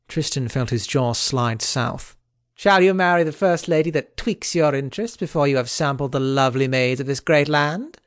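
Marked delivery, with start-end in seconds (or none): 2.5-8.0 joking Kay. Acted. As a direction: poke fun at the king's haste. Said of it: "Sir Kay asked jokingly".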